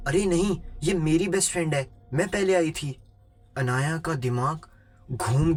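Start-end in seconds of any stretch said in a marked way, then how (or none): 0.1-3.0 high, insistent protest; acted crazy-girl yell. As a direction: squabble like a possessive girl, pitched up. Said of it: "वो पागल लड़की चिल्ला कर कहती".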